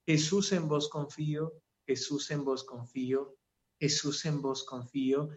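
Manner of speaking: soft, steady repeated prayer; quiet repetition. Shown as a demonstration. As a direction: murmur it like a rosary. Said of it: "puede empezar a repetir". (oración repetida en voz baja)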